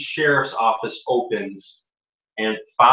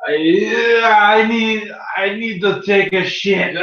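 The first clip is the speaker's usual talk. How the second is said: laughing blurt; 6 semitones higher, slower than usual. Acted. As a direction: burst out the excuse through a laugh. Abram blurting excuse to guards.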